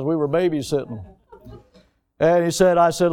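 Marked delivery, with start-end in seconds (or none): 0.0-1.0 weary eye-roll. Retold or imitated. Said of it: "And he rolled his eyes".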